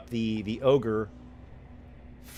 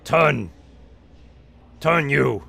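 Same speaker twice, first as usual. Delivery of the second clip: louder brutish command; ogre bark; 4 semitones higher, 9 dB louder, slower than usual. Acted. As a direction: bark it at them. Ogre barking order.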